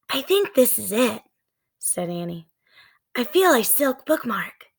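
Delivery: mildly unsure, feeling for the book; girl's voice. Acted. Annie finding the book in darkness, lightly voiced girl.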